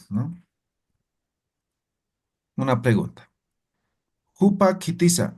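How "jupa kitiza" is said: higher-pitched "Jupa", cut off before "kitiza"; "Jupa" ends on its vowel, then a separate "kitiza"; break between words. Shown as a demonstration. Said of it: "Aquí hay un corte".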